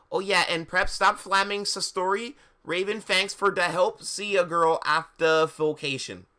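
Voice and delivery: high, loud put-on author; hammed-up author's note voice; fanfic author voice. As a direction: gush it at a high pitch.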